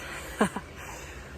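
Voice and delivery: panting laugh, gasping for air; airy laugh short of breath; breathless laugh. Real, not acted. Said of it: "out of breath".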